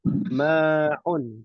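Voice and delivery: MA'UN with a clear throaty ain opening the second syllable; correct ain in MA'UN. Shown as a demonstration. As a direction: stretch the MA, then squeeze the throat for 'UN. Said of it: "pakai ain".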